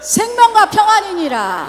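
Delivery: loud, very slow proclaimed answer; congregation's loud drawn-out reply; shouted response. Real, not acted. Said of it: "한번 외쳐보겠습니다".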